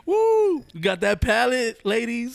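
high, loud hype shout; hype man. Retold or imitated. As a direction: pump up the shoppers. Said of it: "I was the hype man".

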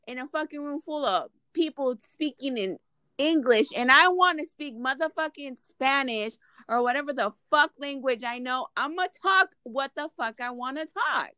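worked-up, emphatic rant; fired-up venting to a friend. Real, not acted. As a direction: rant emphatically, punching the swear words. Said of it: "Why are you screaming?".

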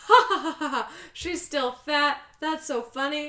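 high mocking ha-ha laugh; imitated catty amusement; mock gloating. Acting out Madeline's gloating laugh.

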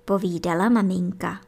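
usual speaking voice

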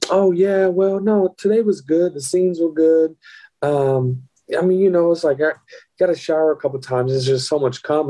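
breezy retelling of a matter-of-fact work report; nonchalant. Retold or imitated. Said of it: "who talks like this nonchalantly?".

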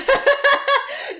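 shrieking laugh, high and loud. Real, not acted. Hearing the rat story, a loud high laugh. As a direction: burst out in a shrill laugh.

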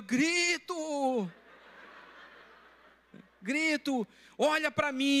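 high, insistent yell; retold shouting. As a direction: pastor refusing to stop yelling at the con man. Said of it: "Pastor, não grita".

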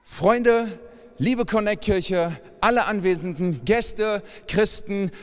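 preacher's welcoming address; sermon address. Acted. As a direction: greet everyone with open arms. Addresses the congregation.

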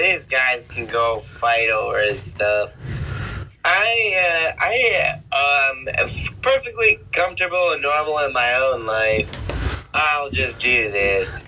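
a hint of a self-satisfied shrug; mock smug guy. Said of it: "Yeah, he's like".

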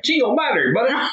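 mocking a redneck Texan in a squeaky put-on voice. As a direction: play a rowdy ranch Texan, over the top. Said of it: "I'll say redneck Texans".

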